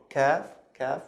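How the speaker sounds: English K in "kaf"; plain K sound starting "kaf"; normal K. Shown as a demonstration. Teacher contrasting an easy letter, normal English K. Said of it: "This is the normal, uh, K sound".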